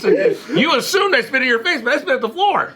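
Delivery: high, argumentative white voice. Acted. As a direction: act wronged in a put-on white voice. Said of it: "your white voice".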